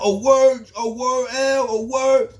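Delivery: high, loud "oh, word" taken aback; startled, high retold reaction; mock surprised. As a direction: imitate him caught off guard. Old timer backing off again.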